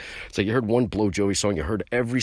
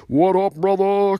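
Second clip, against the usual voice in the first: excited shout-out; 12 semitones higher, 6 dB louder, slower than usual. Real, not acted. Shout-out greeting to a singer.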